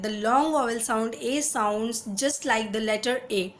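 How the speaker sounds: slow, soft, deliberate English read; slow teaching read. Shown as a demonstration. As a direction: read the rule out slowly. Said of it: "मैं आपको बता रही हूँ".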